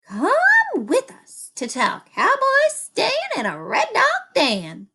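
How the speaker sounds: high, loud excited call; hollered. A narrator's reading. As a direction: call out to the others, urgent. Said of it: "hollered Mary".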